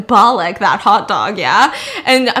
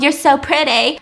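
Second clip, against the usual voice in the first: mock magic spell; 3 semitones higher than usual. Mocking his opening-her-mouth formula, mock magic spell. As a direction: say it like a mock incantation. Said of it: "magic spell".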